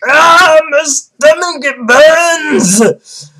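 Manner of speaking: high, loud mock scream of pain; hammed-up agonized shriek; Naruto. Vlogger acting out Naruto's stomach burning, screamed high. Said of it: "Naruto's stomach's like".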